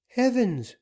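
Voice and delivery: put-on young woman crying out as Dick threatens the money; alarmed cry. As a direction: gasp it out in alarm. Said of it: "cried the young woman".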